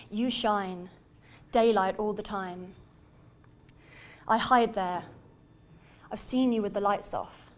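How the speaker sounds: measured poem delivery with long pauses between lines; slam poetry recital. Acted. Poet performs love poem to Leicester Square, measured spoken-word recital. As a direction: let each image land on its own, then pause.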